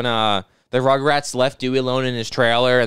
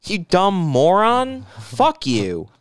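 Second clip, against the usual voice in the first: put-on cool dismissive girl; 2 semitones higher, much slower than usual. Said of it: "the girl being all cool and shit".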